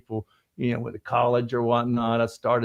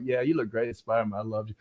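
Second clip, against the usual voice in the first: softer, lower, quick inner thought; unspoken admiration; 4 semitones lower, 6 dB quieter, faster than usual. Retold or imitated. Actor silently admires his Spider-Man co-star, quiet aside. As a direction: murmur it as if only thinking it. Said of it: "But I didn't say it".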